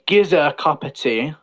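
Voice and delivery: lightly voiced Cockney request; everyday Cockney turn of phrase; Cockney phrasing. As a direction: ask for tea in casual Cockney. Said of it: "They say".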